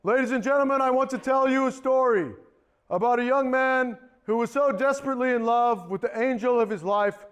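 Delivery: theatrical stage address; grand storyteller on stage; showman speech. Acted. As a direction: draw the audience in like a magician. Stage magician addresses audience.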